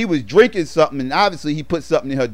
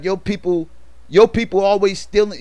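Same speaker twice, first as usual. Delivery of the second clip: Killmonger accusing; 6 semitones higher than usual. Retold or imitated. Killmonger accusing the museum curator.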